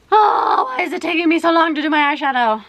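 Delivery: real exasperation, fast and high-pitched; exasperated outburst. Real, not acted. Frustrated at her own makeup.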